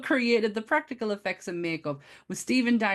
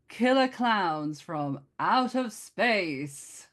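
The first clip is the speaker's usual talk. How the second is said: slow dramatic trailer announcer; movie trailer voice; much slower than usual. Pretend. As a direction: draw out the title like a trailer. Announcing the title as a tagline.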